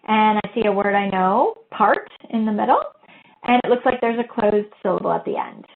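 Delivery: lightly voiced teacher thinking aloud; a hint of a teacher musing to the class. Teacher thinking aloud over the word, lightly voiced. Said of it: "the teacher thinks aloud".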